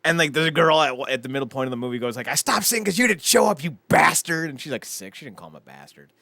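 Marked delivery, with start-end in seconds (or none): 2.3-4.5 higher-pitched acted reproach of a daughter; mock hurt scolding. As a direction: scold dad as the upset girl. Voices daughter scolding her dad.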